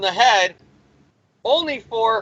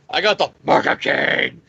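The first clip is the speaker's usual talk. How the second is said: mock menacing voice; 4 semitones lower than usual. Villain's boast in put-on voice.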